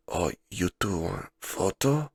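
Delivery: lightly put-on Japanese-accented question; a hint of imitated Japanese accent; imitated Japanese waitress accent. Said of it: "I'm doing the accent".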